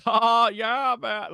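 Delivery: lightly voiced high goofy laugh and drawl; a hint of the dopey metalhead character; Alan Covert impression. Podcaster imitating his favorite movie character, mock laid-back. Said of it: "where he's like".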